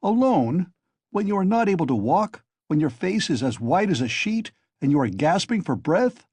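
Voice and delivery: high, loud furious scolding; angry scolding. A narrator's reading. Razumihin scolds Raskolnikov angrily, loud and high. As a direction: berate him, outraged. Razumihin keeps berating him.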